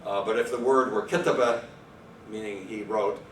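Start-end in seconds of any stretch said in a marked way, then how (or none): 1.0-1.6 "kitaba" stressed on the first syllable, KI; antepenultimate stress. Shown as a demonstration. Lecturer showing Arabic light-syllable rule, antepenultimate stress. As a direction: hit the opening of "kitaba", the rest lighter. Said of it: "go on the third last".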